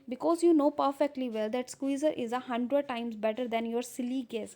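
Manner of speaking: reads the English lines out slowly and carefully; deliberate read-aloud of a script; measured reading of a classic play. Acted. Slow reading of play text.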